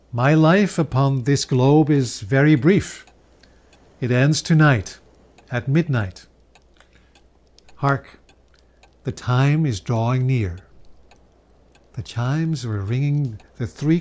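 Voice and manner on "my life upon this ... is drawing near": a hint of a grave ghost speaking of its end; solemn ghost.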